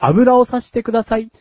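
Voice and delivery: robot voice. Pretend. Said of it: "そんなこといちいち言うロボット".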